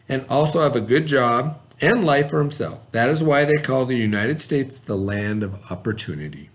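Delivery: clear, even read-aloud voice for a class; story narration. A narrator's reading. Teacher reading a picture book to the class, steady narration.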